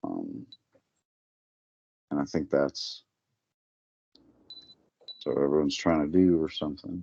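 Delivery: sleepy, nodding off. Explaining an idea late at night: sounding sleepy, nodding off. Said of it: "you sound like you're nodding off".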